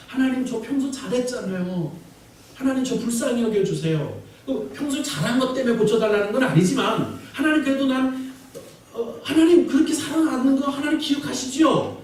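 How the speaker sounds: imitating a self-righteous prayer. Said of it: "이렇게 기도하는 게".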